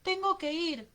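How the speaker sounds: put-on high, loud desperate child; struggling crying child. A narrator's reading. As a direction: plead and yell like a struggling boy. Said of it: "el niño forcejeaba y lloraba". (niño desesperado que grita)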